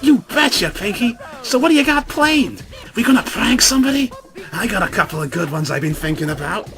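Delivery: forced enthusiasm trying to match her friend; psyched-up Rainbow Dash. Acted. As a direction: pump yourself up and rattle off ideas. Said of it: "Dash psyched herself up".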